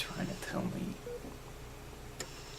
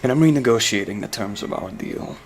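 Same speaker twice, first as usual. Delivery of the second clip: menacing threat; 5 dB louder than usual. Acted. Blackmailing threat to a rival.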